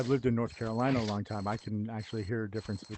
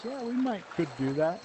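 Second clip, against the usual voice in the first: imitated Southern wife; 7 semitones higher than usual. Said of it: "And she goes".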